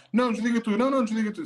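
high, sweet lovers' banter; giggly late night call. Retold or imitated. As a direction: coo at a partner on the phone. Mimicking couple's hang-up game.

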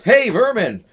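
high, loud hail of a retold greeting; yelled greeting. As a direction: imitate a yell across the room.

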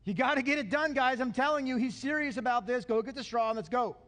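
mildly urgent taskmaster urging workers on; a touch of pushy impatience. Acted. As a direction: press them to get moving. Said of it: "The taskmasters then were urgent".

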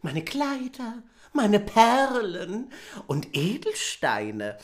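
lightly high princess listing treasures slowly; high slow princess offering. Acted. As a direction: offer it all, drawn out.

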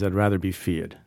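lightly voiced Bronx mobster accent; a hint of a Bronx tough guy. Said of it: "It's my Indian Bronx accent".

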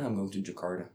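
breezy tourist voice saying Jakarta the English way; mock foreign tourist. Mocking foreigners announcing their trip, in a light English accent. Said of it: "foreigners always say".

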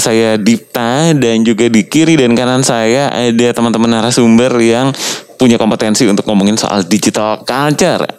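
muffled behind a face mask; talking with a mask on; through a face mask. Real, not acted. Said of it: "kita ngomong pakai masker ini bikin aneh".

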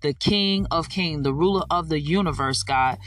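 praying aloud with rising fervour; fervent prayer. Acted. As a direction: lead the listeners in heartfelt prayer. Opening prayer on podcast.

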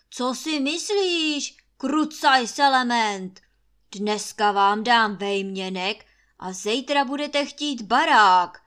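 thunderous roar. Acted. Master Trautenberg roaring at the maid in rage. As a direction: thunder at her like an enraged lord. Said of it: "zahřměl Trautenberg".

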